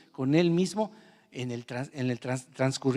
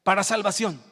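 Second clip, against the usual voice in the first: said loudly; 5 semitones higher than usual. Shown as a demonstration. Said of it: "Dígalo conmigo fuerte".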